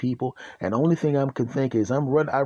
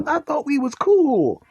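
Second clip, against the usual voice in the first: much higher, stretched-out mock wail; high-pitched protest; 12 semitones higher, 3 dB louder, slower than usual. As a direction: whine it high and slow in mock betrayal. Acts own protest to dog.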